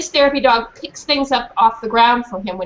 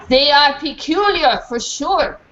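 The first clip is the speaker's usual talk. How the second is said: put-on French accent; 4 semitones higher, slower than usual. A narrator's reading. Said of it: "funny French accent".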